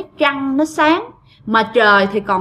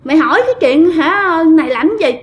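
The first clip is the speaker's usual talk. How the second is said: higher, quick mock telling-off; retold scolding; 5 semitones higher than usual. Women scolding the boy for being nosy, mock scolding. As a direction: imitate women scolding, pitched up. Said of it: "mới bắt đầu mấy bà chửi".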